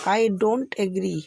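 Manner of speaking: very slow, every word spaced apart; slow teaching demo. Shown as a demonstration. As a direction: lay it out slowly for the class. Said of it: "तो आप आज से English में क्या बोलेंगे". (धीमे-धीमे समझाते हुए)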